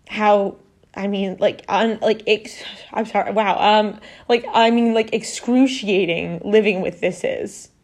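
holding back tears as the words stall; real emotion welling up mid-sentence; emotional. Real, not acted. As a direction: voice catching, slowed and halting. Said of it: "I don't know why I'm getting so emotional".

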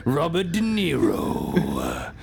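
nineties trailer voiceover. Pretend. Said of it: "the style of the nineties trailer voiceover man".

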